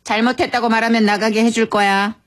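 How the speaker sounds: even, controlled teacher's order; firm. Acted. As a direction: set terms firmly, as to a child. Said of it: "갑자기 단호하게 말했습니다".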